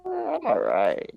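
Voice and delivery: high, slow, bashful put-on voice; mock humble. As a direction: play coy about a compliment. Acts out his humble reply.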